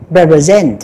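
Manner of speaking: pre-present slowly, syllable start repeated; slow, halting pre-present; broken-up demo. Shown as a demonstration. Teacher slowly breaking down pre-present for students. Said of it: "P với chữ R chúng ta nối".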